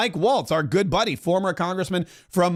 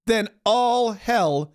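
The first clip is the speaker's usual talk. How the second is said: a hint of Trump laying down an ultimatum, slowing right down for all hell; Trump impression; 3 semitones higher, slower than usual. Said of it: "And he goes".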